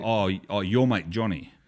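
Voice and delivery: dismissive "your mate". Shown as a demonstration. Australian talking of a disliked Johnny, dismissive. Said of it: "we don't like a person".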